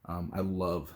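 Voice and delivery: a little winded after riding; out of breath. Real, not acted. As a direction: talk while catching your breath. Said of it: "I'm out of breath".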